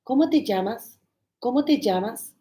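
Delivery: "¿Cómo te llamas?" with every word complete; careful textbook Spanish. Retold or imitated. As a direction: repeat "¿Cómo te llamas?" in full, like a drill. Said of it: "the complete form. So I would repeat".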